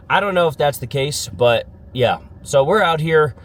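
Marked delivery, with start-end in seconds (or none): 2.4-3.4 congested, blocked nose; stuffy nose. Real, not acted. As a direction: talk through stuffed sinuses. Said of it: "sounding a little stuffy".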